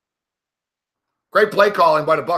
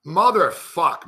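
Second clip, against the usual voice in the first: slow, stretched disgusted curse; drawn-out curse; slower than usual. Real, not acted. Fan after a dropped pass, slow disgusted curse. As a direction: drag the curse out in disbelief.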